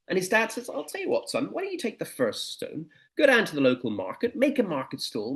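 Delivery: put-on the dad calmly coaching his boy; a hint of a knowing father; wise father. Father advises son in story.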